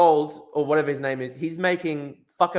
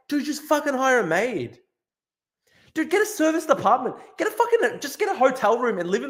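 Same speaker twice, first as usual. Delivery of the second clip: exasperated plea; 9 semitones higher than usual. Real, not acted. Exasperated advice to streamer.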